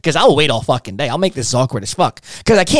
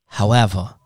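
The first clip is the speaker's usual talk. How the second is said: defeated; 4 semitones lower than usual. Shown as a demonstration. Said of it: "Act defeated within their means".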